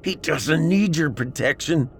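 high-pitched indignant retort, held-back volume; angry shout. A narrator's reading. Celeste defending Trey against Pat, angry half-shout. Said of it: "she shouted".

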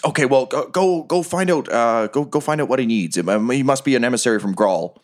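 hesitant orders in a light character voice; big goblin boss. Acted. Big goblin sending a minion to the door, lightly acted boss voice. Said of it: "So the big guy says".

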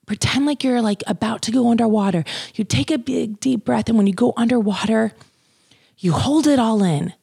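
a hint of a coaching nurse; quoting the nurse. To viewers, imitating the nurse's breathing coaching, mild. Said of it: "they kept saying".

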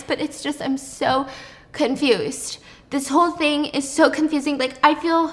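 mock tearful. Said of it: "Noah starts breaking down into tears".

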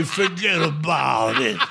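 slow, mocking gangster catchphrase; laughing parody of a wiseguy. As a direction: sneer it out like the movie mobsters. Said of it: "You will never hear me say".

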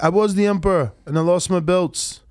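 light imitation of an Australian accent; Kambosos. Streamer quoting the beaten champion, lightly imitated Australian accent. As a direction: put on a mild Australian boxer accent. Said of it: "I just love your, uh, accent you do".

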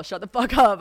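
put-on loud mean-girl snap. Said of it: "I sound like such a Regina George".

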